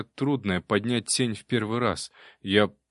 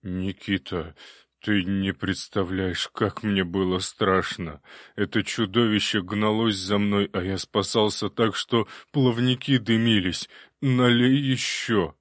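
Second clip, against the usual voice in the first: frightened water demon; slower than usual. Acted. Water demon telling hero of the chase, pitiful. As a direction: whine out the fear, then beg for more.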